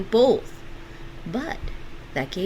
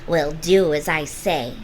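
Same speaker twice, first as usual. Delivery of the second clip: sharp; 5 dB louder than usual. Acted. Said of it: "looked sharply at Gretel".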